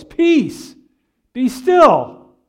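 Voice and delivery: loud, high command over a storm; loud cry. Acted. Preacher acting Jesus calming the storm, loud cry. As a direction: cry it out with force, a beat between commands. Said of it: "he cries out in a loud voice".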